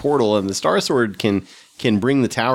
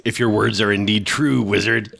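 Wolverine voice. Acted. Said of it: "I'm gonna use my Wolverine voice for Thongor".

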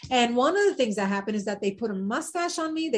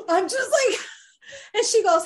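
laughing; 8 semitones higher, 3 dB louder than usual. Real, not acted. Meeting Susan Sarandon.

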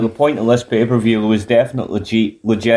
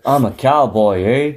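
mock Canadian accent; slower than usual. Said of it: "fails miserably to hide his Canadian accent".

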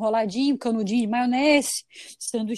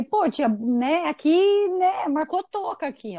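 whiny complaint; 5 semitones higher, much slower than usual. Retold or imitated. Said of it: "E eu falei".

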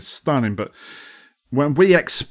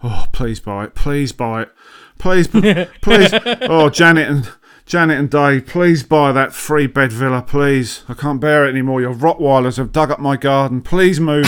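begging, getting louder, "please" pushed harder each time; mock pleading neighbour; 3 dB louder than usual. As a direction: plead desperately with the buyers. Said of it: "they're just going".

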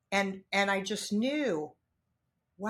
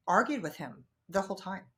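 ordinary delivery

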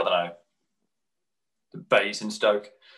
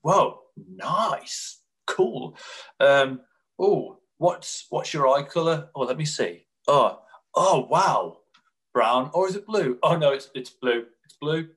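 mock enthusiastic date; 5 semitones higher, 3 dB louder, slower than usual.

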